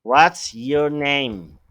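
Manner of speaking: spoken slowly and clearly, What's stretched out; slow, careful teacher demo; slow model question. Shown as a demonstration. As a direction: dictate it slowly as the correct model. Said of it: "Por eso está mal dicho".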